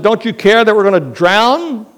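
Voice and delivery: loud, high, frantic plea over the storm; panicked cry. Acted. Disciples waking Jesus in the storm, loud and panicked. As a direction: shout it like the boat is sinking.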